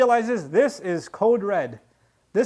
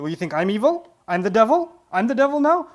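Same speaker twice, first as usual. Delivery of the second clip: rising, louder indignant retort; mock indignant; 5 dB louder than usual. Wife turning it on Yusuf, indignant and louder. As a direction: play her offended outrage.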